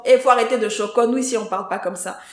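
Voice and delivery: loud opening, then easing off; mock scolding called out at an assistant; retold shouting. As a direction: imitate a colleague yelling a rebuke. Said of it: "une personne qui crie à l'assistante".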